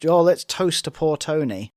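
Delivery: mock toast laced with sarcasm; pissy, sarcastic. Woman mimicking a wife's sarcastic toast to Tony, pissy. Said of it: "she's been really pissy".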